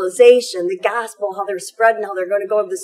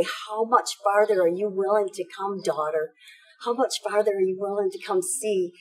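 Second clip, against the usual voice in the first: softer, retold word from the Spirit; solemn prophetic question; 3 semitones lower, 6 dB quieter than usual. Priest relaying the Spirit's words to her, quietly solemn. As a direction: ask it quietly, as a gentle prophecy.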